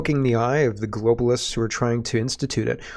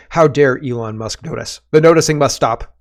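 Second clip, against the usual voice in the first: mock outrage; 6 dB louder than usual. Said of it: "this guy is saying".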